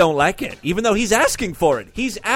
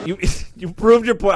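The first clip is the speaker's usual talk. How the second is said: laughing; 3 semitones higher, 4 dB louder than usual. Real, not acted. Host laughs repeating clip line.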